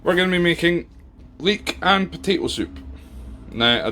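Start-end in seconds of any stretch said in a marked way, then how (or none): 0.0-2.8 higher, livelier reveal of the dish; bright announcement. Real, not acted. Host faces the camera to announce the soup, upbeat. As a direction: present the soup like a big reveal. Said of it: "if I turn this camera around".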